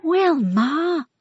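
high, loud exasperated call; exasperated cry. Acted. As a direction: siblings groan her name. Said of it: "cried sus hermanos y hermanas".

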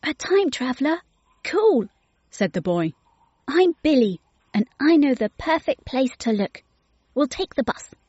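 put-on a keen kid, thrilled to meet a time traveller; young boy Billy. A narrator's reading.

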